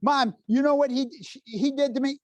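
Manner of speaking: put-on high-pitched kid complaining to mom; tattling child. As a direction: plead your case like a tattling kid. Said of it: "they want you, the referee".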